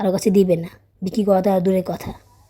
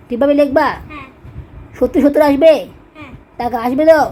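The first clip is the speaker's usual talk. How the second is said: sharp, exasperated telling-off, voice raised high; scolding; 5 semitones higher, 3 dB louder than usual. Real, not acted. Mother scolds her daughter over spelling mistakes, loud and exasperated.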